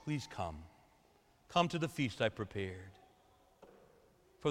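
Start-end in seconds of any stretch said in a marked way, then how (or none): 0.0-2.9 much lower and softer, nearly murmured invitation; hushed plea. Acted. Father calling someone home, hushed and tender. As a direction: let it fall to a tender hush. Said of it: "they'll hear the Father saying".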